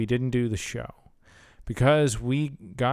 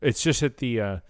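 words broken by a burp; holding back a burp mid-sentence; talking while burping; faster than usual. Real, not acted. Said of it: "I keep burping".

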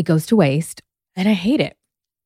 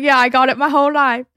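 fast, higher mock British accent; bad British accent; 6 semitones higher, 4 dB louder, faster than usual. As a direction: rattle it off in a clumsy British accent. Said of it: "my accent's really bad".

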